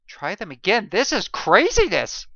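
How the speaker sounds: loud, high, pleading cry; desperate begging. A narrator's reading. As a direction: beg them to try again. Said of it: "I begged".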